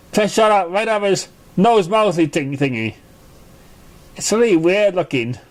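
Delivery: high, bubbly pony voice popping up; Pinkie Pie voice. A narrator's reading. Pinkie Pie surprising Apple Bloom from behind, high and bubbly. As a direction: sneak up and chirp it cheerfully. Pinkie rambles about ziti monster.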